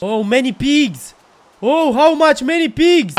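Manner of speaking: slow, drawn-out delighted cry; gleeful mock English. Player admires a herd of pigs, slow glee. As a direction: savour the sight of many pigs.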